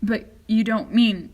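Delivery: put-on disbelieving old man; shouting in alarm. A narrator's reading. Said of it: "shouted Grandpa Joe".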